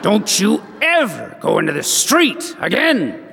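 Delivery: mom's sudden shout. Retold or imitated. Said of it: "the softest, most sweetest little voice".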